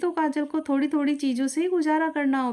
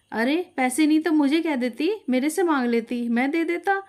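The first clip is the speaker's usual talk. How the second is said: angry retort; 4 semitones higher, 3 dB louder than usual. Acted. Husband snaps back.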